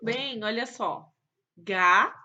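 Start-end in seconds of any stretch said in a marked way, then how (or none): 1.5-2.2 "Galho" split in two, louder and lower; teacher sounding out "Galho" for pupils; syllable by syllable. Shown as a demonstration. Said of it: "por sílabas e monte as palavras".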